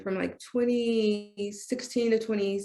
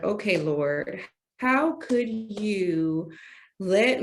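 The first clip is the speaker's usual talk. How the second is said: retold anger at God; 3 semitones higher, slower than usual. Speaker retelling how she confronted God, indignant. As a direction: confront God with mock outrage.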